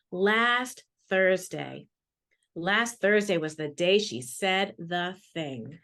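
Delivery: put-on slow, gentle read-aloud for children; measured, dramatic picture-book narration; storybook reading. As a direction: savor each line as if reading to a class.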